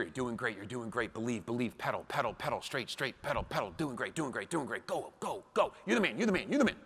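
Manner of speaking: hushed, gentle coaching whisper; soft encouraging whisper. Retold or imitated. Father whispering to his son on the bike, hushed and encouraging. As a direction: whisper encouragement into a child's ear. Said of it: "you're whispering in his ear".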